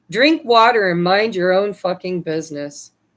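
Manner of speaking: usual speaking voice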